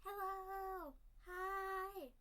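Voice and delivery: high bright sing-song hellos; excited greeting. Real, not acted.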